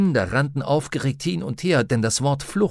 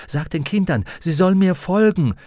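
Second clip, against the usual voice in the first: raised, urgent high voice; bellowed order; 7 semitones higher, 4 dB louder than usual. A narrator's reading. Lyra yells into Roger's ear, bellowing an order. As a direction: shout it over the noise into an ear. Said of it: "brüllte Lyra ihm ins Ohr".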